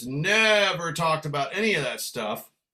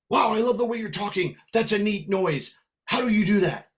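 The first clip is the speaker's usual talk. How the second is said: lightly voiced kid, higher pitch; five-year-old kid; 5 semitones higher than usual. Inner child fascinated by accents, lightly voiced five-year-old. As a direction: pitch it up like a wondering little kid. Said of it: "a little five-year-old kid that goes".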